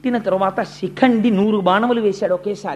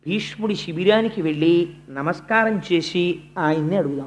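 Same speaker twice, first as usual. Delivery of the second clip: calm counsel; 5 semitones lower, 3 dB quieter than usual. Acted. Krishna gently telling Dharmaraja how to approach Bhishma, soft calm counsel. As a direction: quietly lay out the only way.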